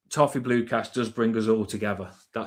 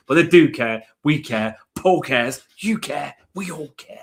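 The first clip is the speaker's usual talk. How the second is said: rallying cry; 4 semitones higher, 6 dB louder than usual. Real, not acted. Rallying fans after a defeat.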